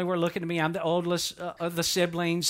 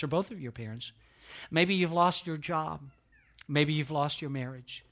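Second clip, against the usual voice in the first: gentle consoling; 3 semitones lower, 4 dB quieter than usual. Real, not acted. Preacher addresses grieving people gently.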